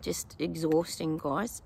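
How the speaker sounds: talking through a yawn. Real, not acted. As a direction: yawn mid sentence. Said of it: "Sorry about the yawning".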